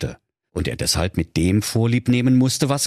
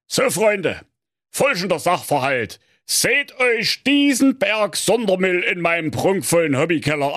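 higher, fond father voice; lovingly; 7 semitones higher than usual. A narrator's reading. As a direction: speak fondly to your sons, pitched up. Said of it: "sprach der Manfred von Antenne liebevoll".

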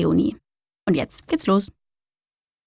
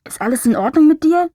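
distant voice; 7 semitones higher, 5 dB louder than usual. Acted. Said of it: "wie aus weiter Ferne".

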